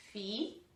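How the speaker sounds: "Filho" split as fi... lho; a clear gap inside "Filho", between fi and lho; syllable by syllable. Shown as a demonstration. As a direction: say "Filho" in two separated syllables. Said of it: "Tem duas sílabas".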